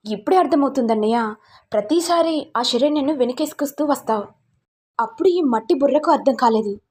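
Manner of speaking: heated, accusing story voice. Acted. Brother accused over Sharanya, mildly heated and accusing.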